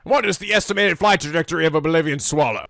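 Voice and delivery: a stern trick question in a put-on quizmaster voice; lightly voiced mock bridgekeeper; bridgekeeper impression. Springing a trick question on Leorio, in a mock bridgekeeper voice. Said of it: "Holy Grail flashbacks".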